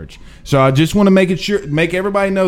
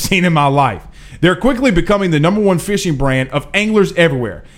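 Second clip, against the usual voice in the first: sponsor ad read. Acted. Reads a sponsor ad.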